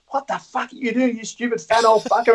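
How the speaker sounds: high-pitched retold scolding; mildly hammed-up berating; mock ripping into someone. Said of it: "ripping into him".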